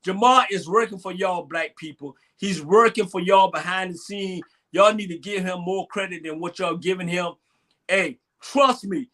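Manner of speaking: low-pitched, earnest tribute; serious. Real, not acted. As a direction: vouch for him seriously and low. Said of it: "on a serious note".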